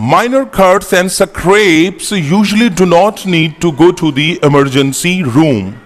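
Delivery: slow, careful English reading for students; slow reading aloud. Shown as a demonstration. Teacher reading an English sentence slowly to students. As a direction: read each word slowly so learners follow. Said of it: "repeat करता हूं".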